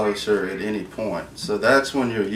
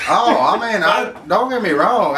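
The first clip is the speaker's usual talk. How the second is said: laughing; 10 semitones higher, 5 dB louder than usual. Real, not acted. Laughing reply to teasing.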